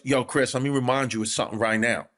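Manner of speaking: quick, low-key fond reminder; Tracy Morgan. Retold or imitated. Imitating a star advising a comic backstage, mock-loving. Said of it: "he said it so lovingly and affectionately".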